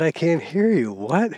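old wife mock-hollering she can't hear; imitating old lady shouting. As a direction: play the half-deaf wife yelling across. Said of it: "they're talking real loud to one another".

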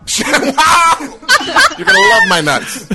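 high, hyped TV salesman; infomercial pitchman. Retold or imitated. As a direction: sell it like a late-night ad.

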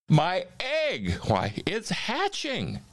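high, thrilled cry; Horton shouting. A narrator's reading. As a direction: exclaim it high in wonder. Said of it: "shouted Horton".

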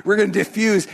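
laughing. Real, not acted. Laughing repeat of joke.

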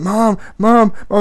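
dad imitating his son tugging on mom; nagging toddler. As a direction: call for mom like a clingy toddler. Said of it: "He's like".

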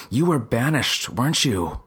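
a mild demand, pressing the angel; accusing the angel, mildly demanding. Acted. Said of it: "I demanded of the angel".

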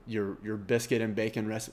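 ordinary talk, nothing marked

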